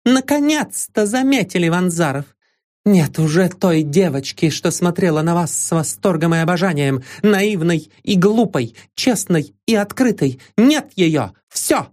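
put-on a young woman losing control, hurling reproach; exclaiming. A narrator's reading. Irena rebukes Vanzarov for missing his chance, shrill high outburst. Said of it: "вскричала она".

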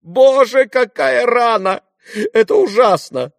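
высокий громкий испуганный вскрик; вскрикнуть, увидев рану; вскрик ужаса. A narrator's reading. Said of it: "вскрикнула". (дама вскрикивает при виде крови)

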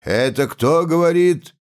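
put-on loud high drunken bellow; drunken roar. A narrator's reading. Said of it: "пьяным голосом заревел".

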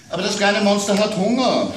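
put-on child's voice worried about monsters at bedtime; little girl. A narrator's reading. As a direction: play the small daughter scared of monsters. Child Amanda calls.

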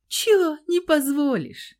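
husband mocking his defiant wife; mocking sneer. A narrator's reading. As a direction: taunt her with a sneer. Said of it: "Глумливо ухмыльнулся".

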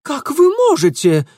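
high, loud shocked voice; Ingvar aghast. A narrator's reading. Ingvar reproaches Mitya, high and shocked. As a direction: breathe it out in shock. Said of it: "выдохнул Ингвар".

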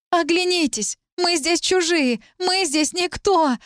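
high, slow, choking outcry; breathless, near tears. Acted. Talit breaking down in front of the girls, close to tears. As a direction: cry out as tears come. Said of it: "Задыхаясь, она расплакалась".

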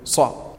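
unvoiced صا with tongue pressed to the palate; voiceless emphatic صا held against the palate; whispered sad sound. Shown as a demonstration. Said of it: "يلتصق مع الحنك العلوي".

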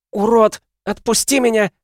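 пронзительный громкий визг; вырывается и визжит; верещит. A narrator's reading. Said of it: "верещала Настя". (истошный визг)

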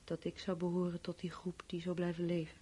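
whispered, breath fading. Acted. Dying woman whispers alone in the cold. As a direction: barely voice it, drifting off.

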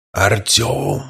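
eerie hollow low call; strange voice. Acted. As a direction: call out like an uncanny mimic. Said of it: "позвал его и этот странный голос". (странный жуткий голос)

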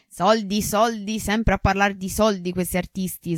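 teasing. Acted. Professore che passa ironico.

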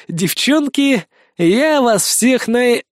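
high, very slow breaking voice; falling hero bids the girls farewell, crying; tearful farewell. Acted. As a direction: let it crack into tears.

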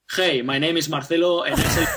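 mock heavy Spanish accent in English; thick foreign accent. Speaker imitating a newcomer to the States, thick Spanish accent. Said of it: "you speak literally like this".

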